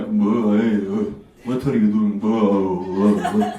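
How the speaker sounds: low Bosnian grunting between words; guttural Bosnian talk. Acted. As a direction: drag out deep guttural Bosnian uhs. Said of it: "We make these guttural sounds".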